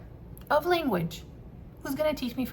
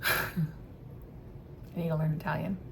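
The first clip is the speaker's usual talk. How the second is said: hushed realization; 5 semitones lower, 8 dB quieter, much slower than usual. Real, not acted.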